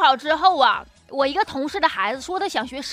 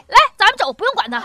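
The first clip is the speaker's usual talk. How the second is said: commander order; 5 semitones higher, faster than usual. Retold or imitated. Company commander abandoning his man.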